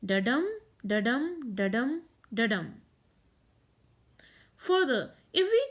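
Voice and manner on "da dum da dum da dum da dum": "Da-dum" said with a light "Da" and a stressed "dum"; "da-dum, da-dum" chanted as unstressed-then-stressed pairs; iambic beat. Shown as a demonstration. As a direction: beat out "da-dum" evenly, weight on each "dum". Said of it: "a pattern of unstressed followed by a stressed syllable".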